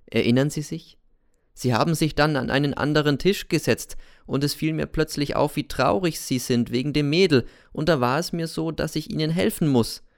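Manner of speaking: hoch, teils rasch, eindringlich; Cäsar, wissend und lauernd. Acted. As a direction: ein Unheimlicher, der sein Wissen ausspielt. Cäsar enthüllt sein Wissen. (Cäsar erinnert den Lehrer an den Brief, hoch und eindringlich)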